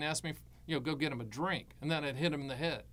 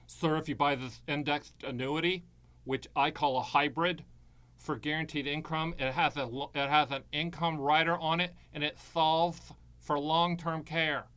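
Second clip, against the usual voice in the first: lisping salesman. Retold or imitated. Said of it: "Without the frontal lisp".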